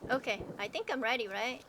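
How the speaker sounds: muffled behind a mask; through a gas mask. Real, not acted. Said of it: "Yeah, but you're very muffled".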